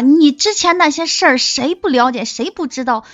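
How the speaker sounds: high, loud indignant challenge; angry retort. Retold or imitated. Woman retelling her anger at an actress friend, indignant. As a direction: fire back furiously at the snub. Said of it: "我就特别气".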